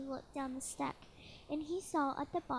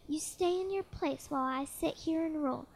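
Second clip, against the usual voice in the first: thundering royal voice. Acted. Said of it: "his royal voice thundered".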